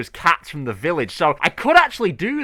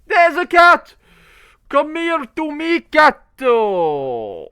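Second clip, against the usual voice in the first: higher, louder eager call to the cat; excited call; 10 semitones higher, 5 dB louder, much slower than usual. Real, not acted. Calling out to cat.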